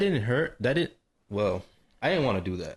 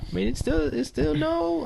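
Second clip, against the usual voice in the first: excited protest. Real, not acted. Excited protest, voice jumps high.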